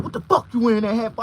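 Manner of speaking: high, loud angry demand; angry cop. Retold or imitated. Black officer confronting him, high and loud. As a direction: snap at him over the hat. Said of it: "This nigga went".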